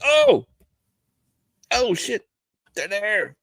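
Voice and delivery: hammed-up scared outcry; retold panic. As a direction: scream as if frightened. Retold terror at movie scene.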